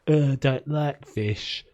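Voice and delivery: slow, mock fussy-kid refusal; whiny kid accent. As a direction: drag it out like a picky child. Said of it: "one of those kids who was like".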